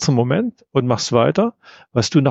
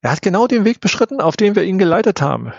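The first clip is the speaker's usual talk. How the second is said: lightly voiced stranger, higher pitch; a higher-pitched character voice, only lightly put on; disembodied voice; 7 semitones higher, faster than usual. A narrator's reading. Unknown voice speaks beside the narrator.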